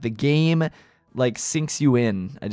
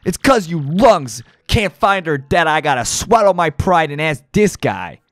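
gruff gangster boss, amused then menacing; a hint of a New York mob boss; tough mob boss; 4 semitones higher, 4 dB louder than usual. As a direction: lean into the Don's threats. Reads mob boss and henchmen dialogue.

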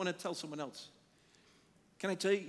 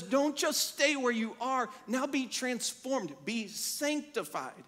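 voice of God; 4 semitones higher than usual. Retold or imitated. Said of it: "is what God's saying".

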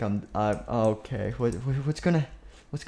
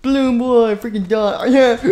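very high, very loud yell; hammed-up furious shriek; 10 semitones higher, 10 dB louder than usual. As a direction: scream at him to die.

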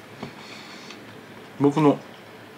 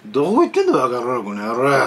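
mild mock yell; 4 dB louder than usual. Old customer yelling where the barber went. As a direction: scold the absent barber. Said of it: "でっかい声でだよ".

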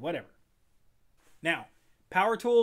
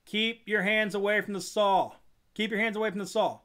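firm warning; 4 semitones higher, 4 dB louder than usual. Acted. Safety warning repeated.

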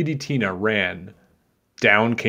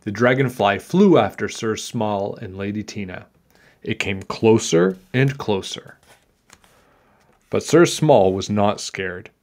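put-on measured read-aloud for children; story narration; 4 dB louder than usual. A narrator's reading. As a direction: tell it like a picture-book tale.

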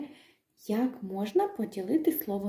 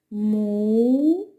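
Му-зи-ка slowly, three open beats Му, зи, ка; slow syllables; 5 dB louder, much slower than usual. Shown as a demonstration. Teacher to children, Му-зи-ка in slow syllables. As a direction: open your mouth wide on each syllable of Му-зи-ка. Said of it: "Давайте".

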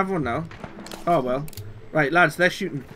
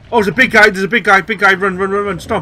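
being chased; 3 semitones higher, 6 dB louder than usual. Real, not acted. Chased by a monster in game.

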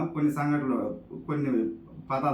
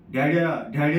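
put-on daughter's Telugu-accented "daddy"; 4 dB louder than usual. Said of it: "భాష మారినా యాస మారదు".

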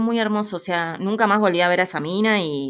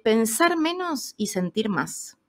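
slow, weighty retelling of the advice; slow wise saying; 4 semitones higher, slower than usual. Retold or imitated. Old lady giving advice to the traveller, slow and weighty. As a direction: deliver it slowly like a revelation. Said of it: "Y de pronto me dice".

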